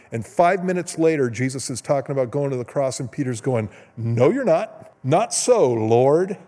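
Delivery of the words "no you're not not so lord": louder, emphatic mock objection; acted protest. Peter objecting to Jesus's talk of the cross, loud protest. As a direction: push back loudly as a retold Peter.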